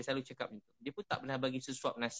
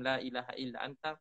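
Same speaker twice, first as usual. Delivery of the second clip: recited Arabic prayer. Retold or imitated. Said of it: "baca doa Nabi Yunus".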